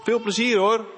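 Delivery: put-on see your child off with a lilting voice; mother's cheery send-off. Mother seeing her son off by bike, calling goodbye.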